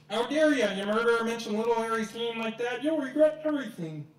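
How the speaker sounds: loud angry roar at the murderer; enraged Hagrid yelling at Dumbledore; furious shout. Acted.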